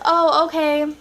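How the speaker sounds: lightly hammed-up imitation of the guy's reply; a slightly exaggerated take on the guy's casual answer; mock version of the guy. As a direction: overplay his "Oh, okay" a little. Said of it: "He didn't sound like that".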